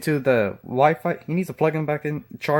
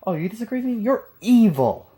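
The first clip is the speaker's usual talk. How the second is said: mocking whine; 4 semitones higher than usual. Mocking refrain, imitating opponents.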